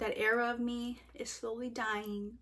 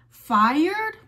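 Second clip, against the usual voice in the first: amused surprise; 6 semitones higher, 10 dB louder than usual. Real, not acted.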